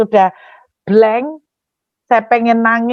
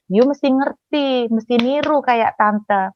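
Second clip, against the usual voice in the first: slow, lightly mimicked lecturing auntie; imitated boastful auntie; 2 semitones higher, slower than usual. Auntie tells preacher to copy her speech, slow mock lecturing. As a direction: spell it out slowly as the model to copy. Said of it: "bahasanya kayak gini".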